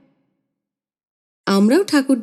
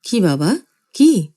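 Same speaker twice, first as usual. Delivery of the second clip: soothing; slower than usual. Acted. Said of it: "সান্ত্বনার সুরে বললেন".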